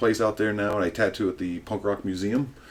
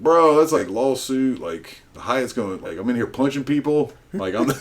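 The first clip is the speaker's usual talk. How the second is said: raised-pitch mock objection to a crazy offer; animated protest; 4 semitones higher than usual. To friends proposing an onstage punch, animated protest. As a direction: protest it like a pal talking sense. Retelling his own startled objection.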